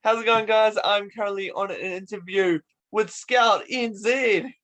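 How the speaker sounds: presenter's opening to followers; video intro. Pretend. Host greets followers to open the interview, presenter voice.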